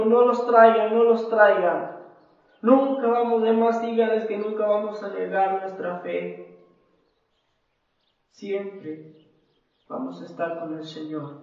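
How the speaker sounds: a mother tells the guards never to bring them, in a loud defiant shout; defiant cry. Retold or imitated. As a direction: refuse them with all your strength. Mother refuses to deny faith.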